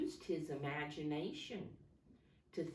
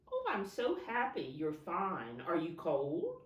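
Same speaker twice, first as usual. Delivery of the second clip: pretend snowman chat; 4 dB louder than usual. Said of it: "I kinda have to pretend".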